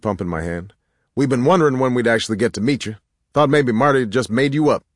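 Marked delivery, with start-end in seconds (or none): 1.1-4.8 higher, louder welcoming voice; hearty deacon. A narrator's reading. Deacon welcoming the newcomer at the door, hearty.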